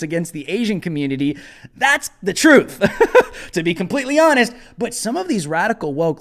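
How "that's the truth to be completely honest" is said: laughing. Real, not acted. Laughing at own claim.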